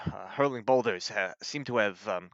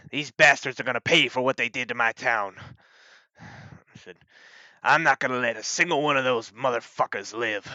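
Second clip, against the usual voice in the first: louder, higher vow of revenge; angry lawman, voice raised in grim resolve; vengeful sheriff; 5 semitones higher, 8 dB louder than usual. Acted. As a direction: play a sheriff swearing payback for his town. Sheriff vows revenge on the giants.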